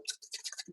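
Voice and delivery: very soft, voiceless clicking; bicycle ticking. Retold or imitated. Storyteller imitates an approaching bicycle, soft ticking. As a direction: tick like a bike wheel under the breath. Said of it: "like a bicycle".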